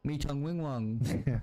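slow, bad fake Asian accent; mock Asian accent. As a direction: drag it out in a cheesy Asian accent. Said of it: "such a bad accent".

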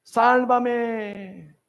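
high, drawn-out cry for rescue. Acted. Preacher acts sinking Peter calling for rescue, crying out. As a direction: call out long and high, pleading to be saved. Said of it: "al final él grita".

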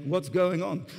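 mock Tunisian accent that slips towards French; light, French-sounding put-on Tunisian accent; attempted Tunisian accent. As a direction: badly imitate a Tunisian friend, sounding French. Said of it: "Just like that sounded more French than Muslim".

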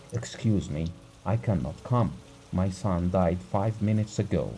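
a hint of lifeless apathy; numb, as if nothing matters now; apathetic. Grieving father refuses the stranger, lightly apathetic. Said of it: "apathetically, dragging out each word".

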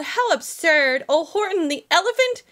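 light mock taunt; mocking yell. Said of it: "they yelled".

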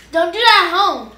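stern, loud warning to viewers. Shown as a demonstration. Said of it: "Y'all can do it at home".

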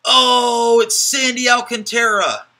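high, loud squeaky mouse voice; mouse impression. Card breaker hyping a pull to viewers, squeaky mouse voice. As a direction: squeal it out like an excited cartoon mouse. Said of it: "that was my mouse impression".

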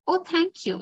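put-on a lady thanking the girl from above; gracious. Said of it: "in a gracious way".

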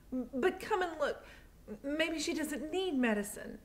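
put-on high, anxious girl calling for help; urgent young girl. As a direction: beg the doctor, breathless and worried. Lena pleading with doctor.

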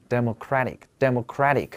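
"Democratic，democratic" repeated, CRAT stressed both times; stress on third syllable. Shown as a demonstration. Teacher drills accurate word stress, third syllable stressed. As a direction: land firmly on CRAT in "Democratic，democratic". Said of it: "关键就是重音位置要准".

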